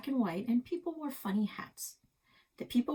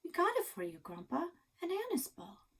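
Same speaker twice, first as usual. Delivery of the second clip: put-on sweet kid voice; 8 semitones higher, 4 dB quieter than usual. Kid offering candy sweetly.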